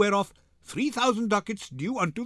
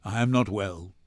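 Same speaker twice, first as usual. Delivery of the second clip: put-on broken old man; 7 semitones lower than usual. Shylock defeated in court.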